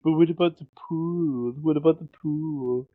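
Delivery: pouty, plaintive mock whine; pleading with a pout. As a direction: imitate a sulky pout over being put off. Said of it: "she's kinda, like, pouting".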